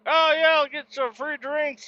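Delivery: high, gushing imitation of the guys; mock excited coworkers. Mocking his coworkers' glee at free drinks, high and gushing. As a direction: send up their glee over freebies.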